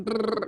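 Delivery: rapid-fire rolled trill; machine gun vibrato. Shown as a demonstration. Singer showing colleague's fast vibrato, machine gun trill. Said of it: "machine gun vibrato".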